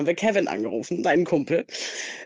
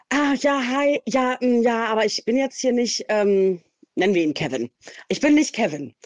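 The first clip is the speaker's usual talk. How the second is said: high, fumbling excuses; caught-out guy; 7 semitones higher than usual. Retold or imitated. The friend answering her call, flustered and high-pitched. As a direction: stammer like someone caught in a lie.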